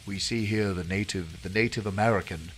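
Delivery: hushed Attenborough-style narration; lightly voiced wildlife narrator; nature documentary. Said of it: "you know, David Attenborough and on a, on a wildlife documentary".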